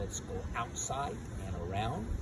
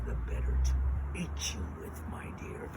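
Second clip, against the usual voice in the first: very low, unvoiced wolf voice; low menace of a hungry wolf; wolf posing as Granny; 10 semitones lower than usual. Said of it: "And the wolf says".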